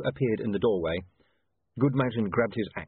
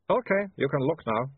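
vampire voice; 6 semitones higher than usual. Acted. Vampire speaks.

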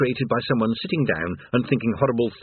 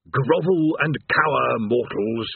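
very slow doom pronouncement; demon threat; 2 semitones higher, slower than usual. Acted. Demon addresses the damned, very slow doom voice. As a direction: intone like an ancient horror.

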